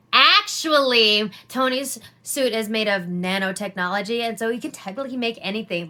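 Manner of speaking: lightly voiced smug fanboy correcting; a hint of a nerdy know-it-all; mock know-it-all. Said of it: "fuckboy fanboys, were like".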